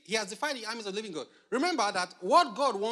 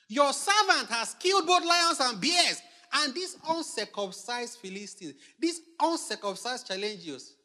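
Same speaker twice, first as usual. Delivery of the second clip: high, loud, slow preacher's proclamation; loud, measured declamation; bold declaration; 3 semitones higher, 4 dB louder than usual. Acted. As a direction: proclaim it like a boast of victory. Preacher declaiming David's bold words.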